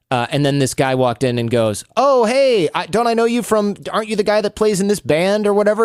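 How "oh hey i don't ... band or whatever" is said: high, chummy hello; imitating an eager acquaintance, high throughout; delighted recognition. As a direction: greet a half-known face, voice pitched way up. Acts man recognizing the host father.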